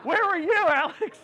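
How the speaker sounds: high, loud call into the room. Real, not acted. Speaker calls out to his friend in the audience, loud and high. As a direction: shout over the crowd to find him.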